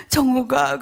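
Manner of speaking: mock sob on the name; retold tearful call. Sister phoning back in tears, mildly acted crying. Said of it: "그러면서 울어요".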